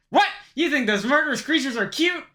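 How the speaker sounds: high, loud disbelief; outraged shocked question. Acted. Agent shocked at cashier.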